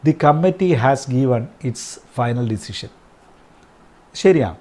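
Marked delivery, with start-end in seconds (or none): 0.1-2.9 very slow, word by word; slow dictation. Shown as a demonstration. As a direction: read it out slowly for the class to write. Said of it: "additional examples". (വളരെ പതുക്കെ, വാക്കോരോന്നായി)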